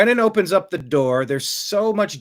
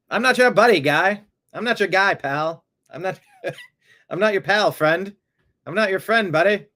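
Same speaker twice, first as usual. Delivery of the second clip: mock Canadian; 4 semitones higher, 3 dB louder than usual. Canadian buddy guy pal bit.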